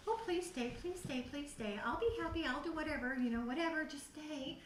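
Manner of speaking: a high, pleading plea to stay; begging. Retold or imitated. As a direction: beg him not to leave, half-imitated. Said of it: "I have been begging".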